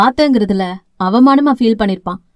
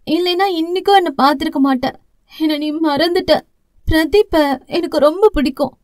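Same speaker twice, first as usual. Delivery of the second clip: a touch higher, small remorseful voice; lightly voiced young sister; 3 semitones higher than usual. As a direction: confess it like a sorry little sister. Sister pours out sorrow.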